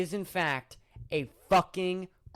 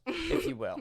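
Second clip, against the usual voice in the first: silly high voice; 12 semitones higher than usual. Pretend. Echoing in silly voice.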